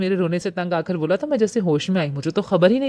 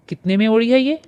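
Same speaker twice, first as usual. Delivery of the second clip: higher and louder, gleeful teasing; chirpy teasing; 5 semitones higher, 5 dB louder than usual. A narrator's reading. Cousin teasing the nervous girl about her result, chirpy and loud. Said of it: "Shahryar चहक रहा था".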